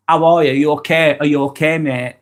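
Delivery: mildly put-on friendly check-in; fake concern. Shown as a demonstration. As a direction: ask with insincere matey concern.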